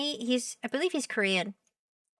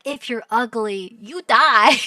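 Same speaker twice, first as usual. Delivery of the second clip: building to a loud punched "die"; blunt storytelling verdict; 7 dB louder than usual. Acted. Streamer mocking what the story tells viewers, bluntly. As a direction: hammer the last words loudly. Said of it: "storytelling to be like".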